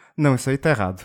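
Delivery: serene, calm, low, soft-spoken and gentle. Imagining Tim Cook replying to a person, calm Tim Cook impression. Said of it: "sereno, calmo".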